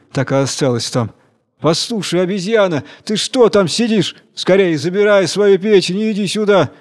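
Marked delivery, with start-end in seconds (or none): 1.6-6.7 jellyfish shouting. Acted. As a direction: yell up at the monkey, urging her down. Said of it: "закричала Медуза".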